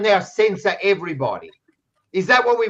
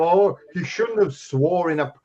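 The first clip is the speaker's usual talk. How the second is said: mocking the critics; 2 semitones lower than usual. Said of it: "I hear people like Purple".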